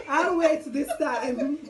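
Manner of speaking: playful God, slow and amused; slow laughing drawl. Pretend. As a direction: stretch every word while laughing. Voicing God, drawn out.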